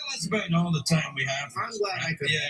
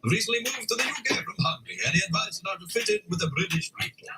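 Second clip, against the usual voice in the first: mock Hungarian accent; 3 semitones higher than usual. Shown as a demonstration. Reading the teen's letter in a mock Hungarian accent. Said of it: "we got the accent wrong there".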